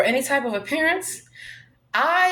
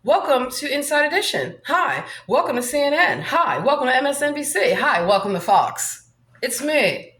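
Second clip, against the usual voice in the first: lightly raised, bright-toned TV host greeting; a hint of a glossy TV host welcome; Hollywood voice; 2 semitones higher than usual. Shown as a demonstration. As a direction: play a chirpy network presenter, only a touch. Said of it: "This is my Hollywood voice".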